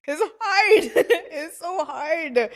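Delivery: high-pitched laughing exasperation; laughing complaint. Real, not acted. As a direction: wail it through laughter, drawing out the last word. Laughing at how hard language is.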